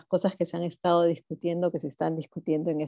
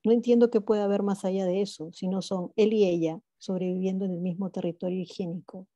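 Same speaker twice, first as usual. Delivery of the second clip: poetry reading. Acted. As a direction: read the poem aloud to an audience. Reads poem fragment aloud. (lectura de poema en voz alta)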